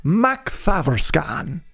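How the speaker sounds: Macthaverskan said slowly with a lilting Irish rise; a hint of an Irish accent on Macthaverskan; light Irish accent. Shown as a demonstration. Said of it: "like a kinda in like an Irish accent".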